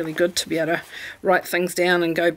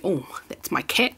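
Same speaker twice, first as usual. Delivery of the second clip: whispered aside; 4 dB quieter than usual. Real, not acted. Aside about cat arriving.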